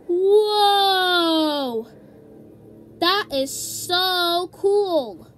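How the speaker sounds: loud, drawn-out wowed reaction; amazed. Pretend. Character amazed by the treehouse.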